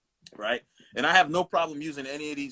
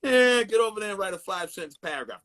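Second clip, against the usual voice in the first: louder, lightly mimicked teacher's order; Mister Goodwin; 3 semitones higher, 5 dB louder than usual. Teacher ordering a talking kid away, loud light impression. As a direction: send the pupil off like a fed-up teacher. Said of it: "This is how he talked".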